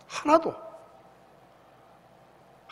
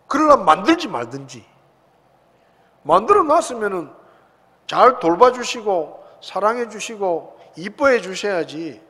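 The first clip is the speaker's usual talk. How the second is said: raised, aggrieved protest to God; a bitter, half-acted complaint to heaven; complaining to God; 2 semitones higher, 5 dB louder than usual. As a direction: plead and accuse at once, voice lifted. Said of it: "그렇게 물어요".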